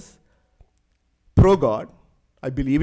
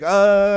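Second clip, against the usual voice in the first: mock cry of discomfort; 4 semitones higher, 7 dB louder than usual. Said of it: "like, he says".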